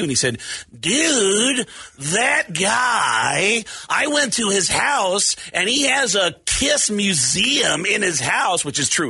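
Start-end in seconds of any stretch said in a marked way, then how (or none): 0.8-8.6 lightly voiced rocker; a hint of a surfer-dude rocker. The speaker telling about Gene's house, lightly voiced.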